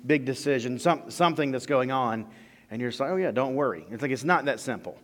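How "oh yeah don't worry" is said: breezy, throwaway "Oh yeah, don't worry"; glib platitude. Retold or imitated. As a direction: shrug it off lightly.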